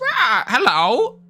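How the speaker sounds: high, squawking bird-man parrot voice. Voicing a bird-like trader greeting the players: squawking bird-man voice. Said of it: "Yes, he sounds like that".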